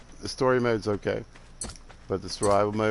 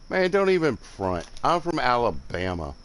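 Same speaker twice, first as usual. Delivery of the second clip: higher, louder playful protest; mock-offended scolding; 4 semitones higher, 4 dB louder than usual. Real, not acted. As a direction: tease the viewer for the wrong guess.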